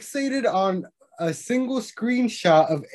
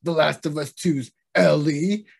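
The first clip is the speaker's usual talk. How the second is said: reading a tweet. Retold or imitated.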